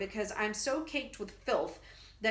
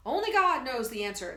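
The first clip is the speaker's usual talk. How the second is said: louder, solemn pronouncement; grand and solemn; 3 semitones higher, 6 dB louder than usual. Acted. Professor ending his pitch, grand and solemn. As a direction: announce it gravely. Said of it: "the professor announces, very grand and solemn".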